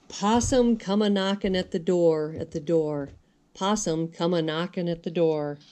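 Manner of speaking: singsong storybook narration; reading to children. A narrator's reading. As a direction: read the rhymes gently to little ones. Reads a rhyming picture book.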